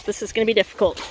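strained while wrestling a dog; holding down a pet. Real, not acted. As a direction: talk while grappling with a squirming dog. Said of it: "I'm wrestling the dog".

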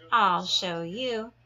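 loud, slow threatening screech; slow loud angry ladybug. Acted. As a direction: spit it out as a grouchy threat. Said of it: "screeched the grouchy ladybug".

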